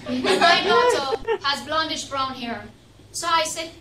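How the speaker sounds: ordinary talk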